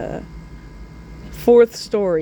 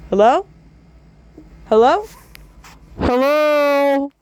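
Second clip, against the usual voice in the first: louder rising calls; searching calls, each louder; calling out; 6 semitones higher, 5 dB louder, slower than usual. Pretend. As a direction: call out into the empty room.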